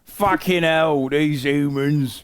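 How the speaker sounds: a sleepy frog complaining about the humans; grumpy frog voice. Acted. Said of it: "Go do that voice with a close-up".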